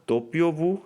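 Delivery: W pronounced دوپیو وو in Italian; Italian letter name. Shown as a demonstration. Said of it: "ڈبلیو کو".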